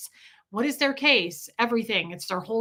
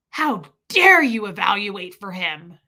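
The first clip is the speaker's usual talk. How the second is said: indignant outburst; 5 dB louder than usual. Retold or imitated. Retold woman berating the mother.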